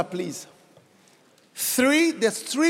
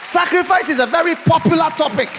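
emphatic preacher's declaration; forceful preaching; 3 semitones higher, 5 dB louder than usual. Real, not acted. Preacher promising the cross will be popular, forceful preaching. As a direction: press it home firmly from the pulpit.

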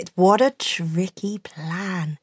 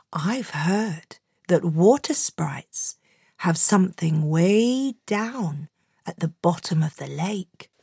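scheming whisper; 2 semitones lower, 5 dB quieter than usual. Acted. Peter's scheming hushed line.

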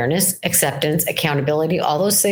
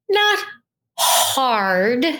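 Not leaps up high, then hard; stress on not; 4 semitones higher than usual. Real, not acted. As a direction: hit the word Not hard. Emphatic contrast, repeated point.

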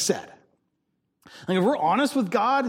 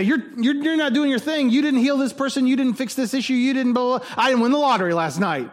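higher-pitched running list of grievances; mock accusing complaint; 6 semitones higher than usual. Preacher imitating people reviewing God like an employee, mock accusing. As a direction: pile up the mock complaints without a break.

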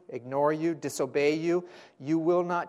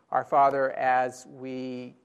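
closing prayer; 3 semitones lower than usual. Acted. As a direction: ease down into a hushed prayer.

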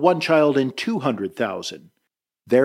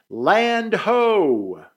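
shouting; 7 semitones higher than usual. Retold or imitated. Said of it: "a child hollering".

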